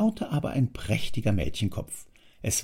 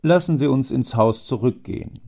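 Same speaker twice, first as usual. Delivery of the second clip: a lightly voiced businesslike father, louder; father Preis; 5 semitones higher, 6 dB louder than usual. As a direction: steer the talk firmly. Preis invites him.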